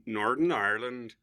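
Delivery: attempted Northern Irish accent. Shown as a demonstration. Guest showing his poor accents, shaky attempt at Northern Irish. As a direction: have a weak go at Northern Irish. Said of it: "country in the accent".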